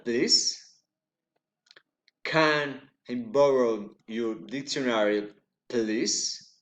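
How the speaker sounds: polite request lifting on "please"; rising request. Shown as a demonstration. Teacher demonstrating requests, rising intonation. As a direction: raise "please" at the very end. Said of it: "recent intonation".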